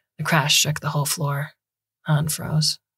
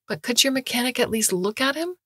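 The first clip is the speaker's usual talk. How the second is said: put-on higher, desperate young woman begging for help; pleading student; 8 semitones higher than usual. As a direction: beg the doctor, voice rising. Han begging, high pitch.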